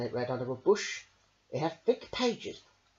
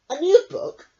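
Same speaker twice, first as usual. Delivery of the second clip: higher and louder, eager question; excited cry; 14 semitones higher, 12 dB louder than usual. Acted. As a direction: jump on the idea. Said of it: "cried Fox".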